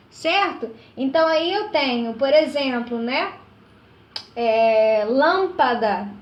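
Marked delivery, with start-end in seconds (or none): 5.1-6.1 lâmpada drawn out slowly from a strong "lâm"; stress on antepenultimate syllable. Shown as a demonstration. Teacher giving an example of a proparoxytone, lâmpada stressed on "lâm". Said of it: "antepenúltima sílaba mais forte".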